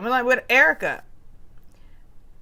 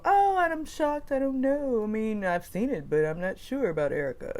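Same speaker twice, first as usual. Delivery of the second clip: mock quote; 2 semitones higher than usual. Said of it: "it was just gonna be a lot of".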